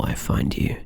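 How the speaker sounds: a hushed whisper. Acted. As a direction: trail into a soft whisper. Describes whispering into the ear.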